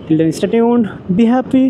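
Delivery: muffled, talking inside a helmet. Real, not acted. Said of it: "হেলমেটের মধ্যে থেকে কথা বলতেছি".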